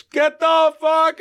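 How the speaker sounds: high-pitched, rushed-off brush-off; retold exasperated outburst. Friend hanging up on the caller, exasperated outburst.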